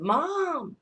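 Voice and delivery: very high, loud, stretched-out call; retold yell. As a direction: imitate a child yelling for mom. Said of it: "I heard someone yell".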